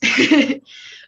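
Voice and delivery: high, loud burst of nervous laughter. Real, not acted. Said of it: "I'm a little nervous".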